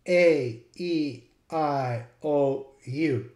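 modern English letter names A, E, I, O, U; A, E, I, O, U said separately as today's alphabet; post-shift vowel names. Shown as a demonstration. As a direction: recite A, E, I, O, U as long modern vowels. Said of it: "After the Great Vowel Shift".

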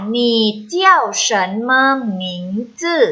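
measured syllables for learners to repeat; read-after-me model. Shown as a demonstration. Teacher leads students reading Chinese after her, measured model reading. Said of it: "อ่านตามค่ะ".

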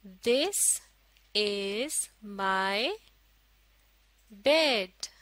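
very slow, a pause after each word; word-by-word model reading. Shown as a demonstration. Teacher models a sentence for learners, word by word. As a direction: space out every word for learners.

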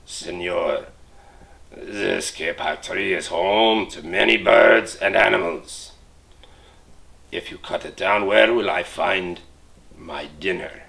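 a jaguar growling about its dinner. Acted. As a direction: growl it like a hungry big cat. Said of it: "He growled into the man's ear".

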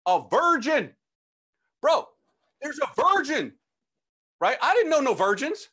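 high, loud exasperated bursts; frantic explaining. Retold or imitated. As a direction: re-enact a freaked-out kid insisting.

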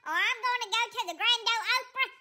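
lightly put-on sassy cat voice; sassy cat Willow. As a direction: talk back like an offended diva cat. Willow dismisses owner's news.

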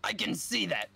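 high, lightly Mario-ish clerk; cashier as Mario. Acted. Bored cashier answering the customer, high Mario-ish. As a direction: play the cashier in his Mario voice. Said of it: "cashier's, uh, Mario".

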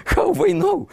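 a high, laughing question. Real, not acted. Guide to visitors about the phrasebook, laughing high.

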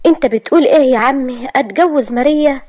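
put-on young man snapping back at his uncle; shocked, angry protest; angry outburst. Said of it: "وهو بيقول بعصبية".

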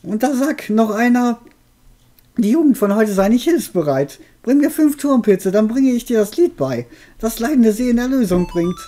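put-on high, cackling old witch. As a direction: play the friendly old witch. Witch answers.

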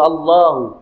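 "আল্লাহু" with the "লা" lengthened; long vowel read out. Shown as a demonstration. Teacher showing the unwritten alif is read, lengthened "লা". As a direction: hold the aa in "আল্লাহু". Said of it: "পড়তে হবে".

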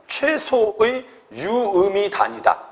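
half-speed, stretched syllables; slow dictation. Shown as a demonstration. Teacher having students write the definition, dictated slowly. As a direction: spell out the definition at writing pace.

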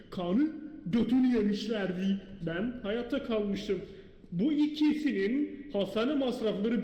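upbeat channel host intro; youtuber intro. Acted. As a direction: greet the viewers like a host. Horror video intro to camera.

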